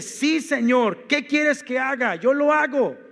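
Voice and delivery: eager surrender; eager willing prayer. Pretend. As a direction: pray it like someone saying yes to God. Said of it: "una mente que le dice".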